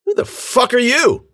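high, aggressive demand; angry challenge. A narrator's reading. Attacker challenges the old man, angrily. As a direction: fire it at an intruder.

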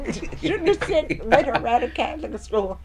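high, loud scolding mother; mother's voice. Retold or imitated. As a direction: scold like an exasperated mom. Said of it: "my mother said".

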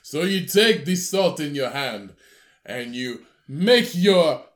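slow, showy put-on chef; drawn-out theatrical chef talk; Salt Bae impression. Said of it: "that's how he talks".

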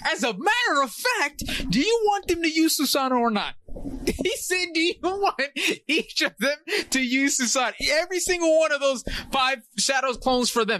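hyped retelling of Madara's taunt; excited kid rambling. Retold or imitated. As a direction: pitch climbing as the taunt escalates. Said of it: "Madara goes".

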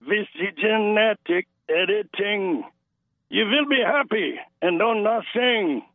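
lightly put-on Schwab voice, barely off his own; a mild mock villain announcement; fake Klaus Schwab. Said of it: "your fake Klaus Schwab voice".

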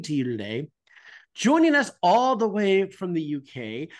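upbeat show-opening delivery with punched openings; podcast announcer intro. Acted. Host welcoming listeners to a new episode, announcer style. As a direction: announce the guests with showy emphasis.

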